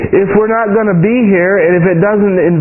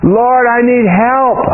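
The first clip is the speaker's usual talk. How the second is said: drawn-out retold plea to God; reenacted plea, slow and rising; crying out; much slower than usual. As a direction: retell a cry for help, words stretched. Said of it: "I cried out to the Lord".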